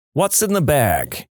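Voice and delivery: slow, heavy New Jersey cop voice; heavy Jersey accent. Retold or imitated. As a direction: ask it like a tough Jersey cop, drawn out. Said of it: "He said in a really heavy Jersey accent".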